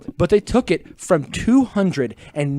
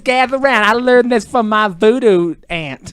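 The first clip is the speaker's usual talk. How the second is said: spooky storyteller; 3 semitones higher than usual. Acted. Mock spooky ritual voice.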